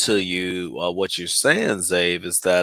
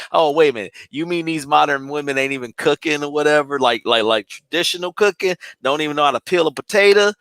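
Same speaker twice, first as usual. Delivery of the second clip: incredulous; 6 semitones higher, faster than usual. Retold or imitated. Friend hearing the boy can't peel potatoes, mildly incredulous. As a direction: question it in higher-pitched mock disbelief. Acting out disbelief at potato revelation.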